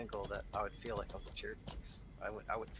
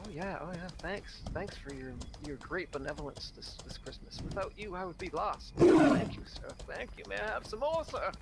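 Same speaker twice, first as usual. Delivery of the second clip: high, pleading, begging for more; groveling orphan; 7 semitones higher, 4 dB louder than usual. Retold or imitated. Guest groveling to the host for more food, high and pleading. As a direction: beg like a starving orphan, sir.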